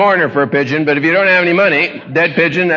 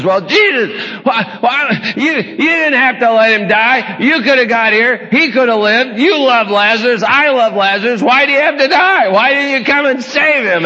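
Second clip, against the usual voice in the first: Martha scolding; 4 semitones higher than usual. Retold or imitated. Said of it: "She says".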